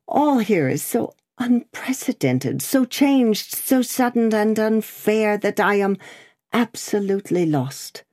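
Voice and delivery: high-pitched, distressed prisoner voice; bewildered prisoner. Acted. Prisoner says all here is unprecedented, bewildered.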